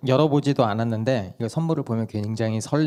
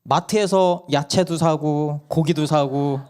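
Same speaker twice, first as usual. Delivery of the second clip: 높고 아주 느리게 하나씩 꼽는 아이; 증거를 들이미는 꼬마처럼; 또박또박 아이 흉내; 4 semitones higher, 4 dB louder, slower than usual. Retold or imitated. 막내가 근거를 댐. (엄마에게 따지는 막내 목소리)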